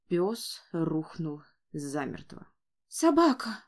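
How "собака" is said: put-on child calling. A narrator's reading. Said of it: "позвал маленький лорд".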